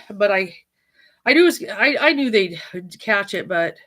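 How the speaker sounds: breathless, loud bursts; panting words after the stairs; out of breath. Real, not acted. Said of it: "ooh, I'm out of breath".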